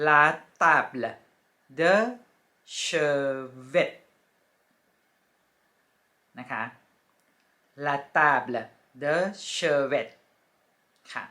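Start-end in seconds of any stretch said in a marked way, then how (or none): 0.1-3.9 la table de chevet, each word separated; French pronunciation. Shown as a demonstration. Teacher naming the bedside table, careful French. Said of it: "ภาษาฝรั่งเศสก็อ่านว่า". 7.8-10.1 la table de chevet, each word separated; French pronunciation. Shown as a demonstration. Teacher naming the bedside table, careful French. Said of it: "ภาษาฝรั่งเศสก็อ่านว่า".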